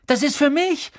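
high, urgent protest; crying out. Acted. Boy trying to snatch his letter back, high protesting cry. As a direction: call it out to claim it. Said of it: "rief Harry".

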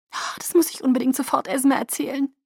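high, eager outburst; excited. A narrator's reading. Alice wants to tell Esme at once, excited. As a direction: gush as if about to run off with news. Alice thrilled by Bella's approval.

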